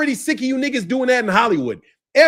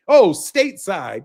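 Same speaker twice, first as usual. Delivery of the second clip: mimicking Jamaican; 3 semitones lower, slower than usual. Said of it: "You guys even call us stateside".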